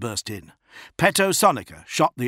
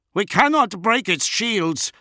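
high, slow, strained yell; yelling back; 12 semitones higher, 6 dB louder than usual. A narrator's reading. Officer answering his commander in battle, yelling back. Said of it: "Van Aunger yelled back".

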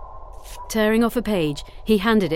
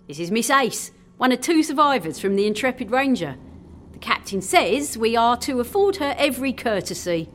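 put-on lively young sailor voice; friendly chiding between mates; cheerful sailor; 5 semitones higher than usual. Jimmy introduces Ace.

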